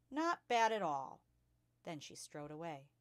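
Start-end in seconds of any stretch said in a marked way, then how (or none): 0.1-1.2 "Not bad at all" slow and louder; smug emphasis. A narrator's reading. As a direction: savour each word, pleased with yourself. Trunchbull smug after throw.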